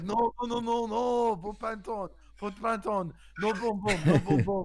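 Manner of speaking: high, loud volley of refusals; imitated frantic masseur. Masseur tells customer to dress, mock frantic. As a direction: rattle off protests up high, mock alarmed.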